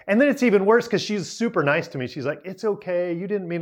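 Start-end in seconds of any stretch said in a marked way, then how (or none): 2.4-3.6 kindly reassuring. Retold or imitated. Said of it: "she's so nice".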